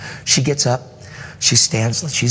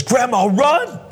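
very high-pitched, rising cry; squealed, acted command to run; imitated excited urging; slower than usual. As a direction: urge grandma on like a thrilled granddaughter. Granddaughter urges grandmother to run.

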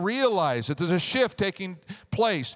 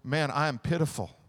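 pitiful moaning; 6 semitones lower, 4 dB quieter than usual. Shown as a demonstration. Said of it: "Or you can say it this way".

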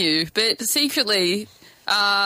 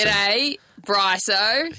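casual Australian greeting accent; Aussie mate's hello; much slower than usual. Shown as a demonstration. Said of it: "do your Australian accent".

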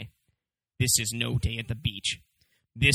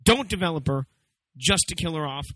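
ranting; 6 semitones higher than usual. Real, not acted. Ranting about movie.

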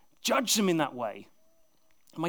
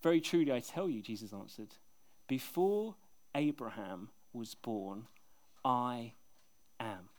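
hushed solemn declaration; 8 semitones lower, 7 dB quieter than usual. Acted. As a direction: drop right down and let I am land. Climactic I am declaration.

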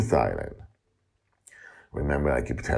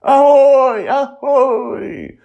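high, loud excited yelling back; 12 dB louder, much slower than usual. Acted. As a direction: shout it back, thrilled to see him. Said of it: "yelled back at him, all excited".

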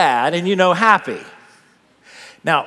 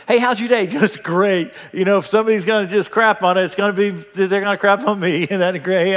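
higher, forced cheer with laughs; fake happy; 4 semitones higher, 3 dB louder than usual. Preacher mimics people always laughing though unhappy, falsely cheerful. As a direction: act falsely upbeat while grumbling. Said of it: "That's not happy".

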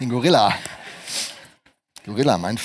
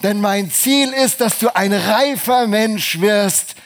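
higher, louder, slow solemn God voice; 6 semitones higher, 4 dB louder, slower than usual. Acted. Preacher voicing God's answer to the complaint, slow and lofty. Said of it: "der liebe Gott sagt".

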